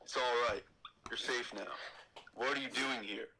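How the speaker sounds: a hint of a brooding Anakin; lightly voiced young Jedi, reassuring. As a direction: Anakin in near-normal voice. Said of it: "my Anakin is pretty sick".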